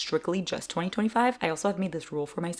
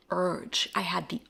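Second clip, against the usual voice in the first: whisper; 5 dB louder, slower than usual. Real, not acted.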